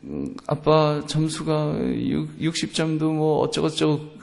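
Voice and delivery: soft, hesitant acted child; quiet, halting confession from a kid; child reporting. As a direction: mumble a bad score to dad. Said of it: "애가 이제 이야기를 하겠죠".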